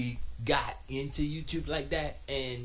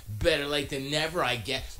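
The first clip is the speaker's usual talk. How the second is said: slightly higher, backhanded snide read; snarky mock read; 3 semitones higher than usual. Shown as a demonstration. Mocking how a viewer's backhanded comment sounds, snide. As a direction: read it as the smug chatter would. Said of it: "Let me read it how you sound".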